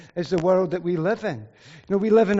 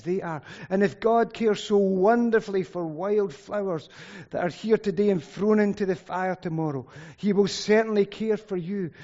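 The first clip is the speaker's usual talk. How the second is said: louder, measured Bible reading; scripture reading; 3 dB louder than usual. Acted. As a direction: read the passage out to the congregation. Reads scripture passage aloud.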